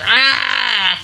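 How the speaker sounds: witchy cry of a hag; hag screech. Pretend. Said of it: "I'm doing a hag impression".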